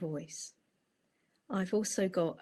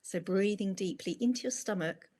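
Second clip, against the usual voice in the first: unhurried breathing instructions with long pauses; easy meditation-teacher delivery, pausing for each breath; guided meditation. Acted.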